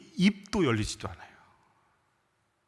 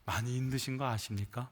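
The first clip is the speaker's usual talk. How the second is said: soft, restrained courteous question; polite, genteel; 6 semitones lower, 10 dB quieter than usual. Acted. Israelites imagined politely addressing Moses, soft genteel tone. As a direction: say it gently and formally, much quieter. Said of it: "점잖게 얘기 안 했을".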